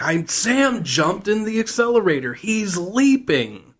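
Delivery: high-pitched mock panic, last word stretched; imitated panicked cry. Gushy explains to Al what Sam did, in imitated high panic. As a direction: cry it out high like a hammed-up alarm.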